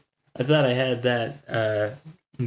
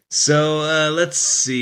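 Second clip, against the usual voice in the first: deep pitch shifted; 5 semitones higher, 6 dB louder, slower than usual. Real, not acted. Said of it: "Mister No Tech".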